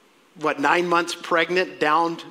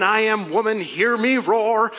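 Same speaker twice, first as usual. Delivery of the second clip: 1 mock feminist anthem; 5 semitones higher, 4 dB louder than usual. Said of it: "This is not Mary saying".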